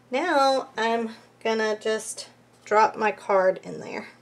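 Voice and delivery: words on a held breath; holding breath. Real, not acted. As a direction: say it while holding your breath. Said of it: "as I hold my breath as I do it".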